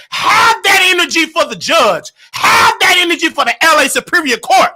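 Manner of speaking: loud, high challenge; calling out. Real, not acted. Calling out Armand to stand up to the court, loud and challenging. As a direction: dare him to bring that energy to the judge.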